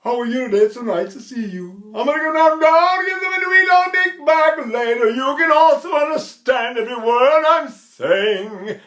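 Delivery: high, loud, ringing speech that carries; projected speech demo. Shown as a demonstration. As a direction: speak it like filling a theater. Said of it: "It makes the diction very clear".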